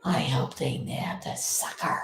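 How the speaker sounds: soft whisper. Real, not acted. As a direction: hush it. Whispers hope for the capture.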